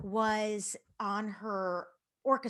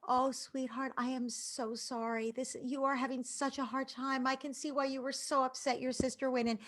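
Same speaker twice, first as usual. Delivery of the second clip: gently voiced comforting mom, slightly raised pitch; soothing mother; 4 semitones higher than usual. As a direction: soothe an upset child with sympathy. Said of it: "to connect with her".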